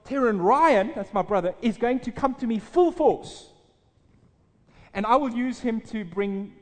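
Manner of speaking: voice of God. Retold or imitated. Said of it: "the words are".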